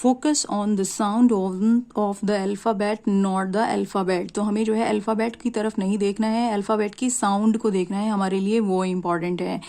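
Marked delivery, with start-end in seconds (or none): 0.0-4.3 very slow, word by word; slow classroom dictation of a rule. Shown as a demonstration. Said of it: "practice करेंगे मेरे साथ".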